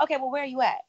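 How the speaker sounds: imitating a curt, impatient caller; retelling the delivery lady, curt and impatient; rude caller. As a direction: snap the question like a rude clerk. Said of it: "Like that?".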